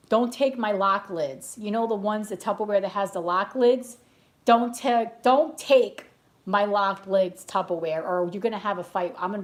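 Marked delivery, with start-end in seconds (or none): 0.1-1.6 slow, drawn-out mock warning; mock Tupperware warning. Crazy Tupperware lady guarding her lids, slow mock warning. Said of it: "I used to be a crazy Tupperware lady too". 4.4-8.0 louder, punchier mock threat, words hit hard; louder mock warning. Crazy Tupperware lady threatening a fight, louder mock threat. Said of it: "I used to be a crazy Tupperware lady too".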